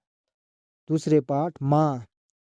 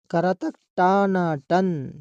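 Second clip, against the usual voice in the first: slow spelling-out; 2 semitones higher, slower than usual. Shown as a demonstration. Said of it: "आप लोग ध्यान से सुनिए।".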